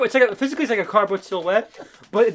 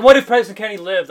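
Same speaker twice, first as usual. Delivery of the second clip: laughing quote; 3 semitones higher, 10 dB louder, faster than usual. Retold or imitated. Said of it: "so he's like".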